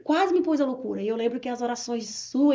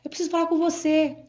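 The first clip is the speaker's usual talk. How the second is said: drawn-out urgent call, then higher; retold urgent plea; 4 semitones higher than usual. Frightened wife messaging her pastor for help, retold urgent plea. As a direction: call out to the pastor, imitating your own alarm.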